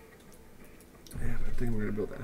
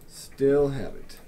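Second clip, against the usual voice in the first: drawn out, louder; slow, savoring; 3 semitones higher, 4 dB louder, slower than usual. Shown as a demonstration. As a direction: stretch each word with satisfaction.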